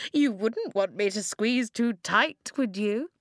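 taunting villainess, lilting threat; mocking Ice Queen voice; amused menace. A narrator's reading. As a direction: toy with them as you threaten. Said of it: "she laughed".

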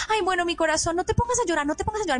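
súplica aguda para calmar al niño; adulto permisivo. Acted. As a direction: imitando a un padre que cede por miedo. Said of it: "por miedo a las emociones". (consuelo ansioso y sobreactuado)

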